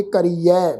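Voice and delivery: ਕਰੀਐ as "ka-ree-ai", ending open. Shown as a demonstration. Teacher showing the dulavan vowel, ਕਰੀਐ ending in open "ai". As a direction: finish ਕਰੀਐ on a clear open "ai". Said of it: "ਦੁਲਾਵਾਂ ਦੀ ਮਾਤਰਾ ਦਾ ਪਾਠ".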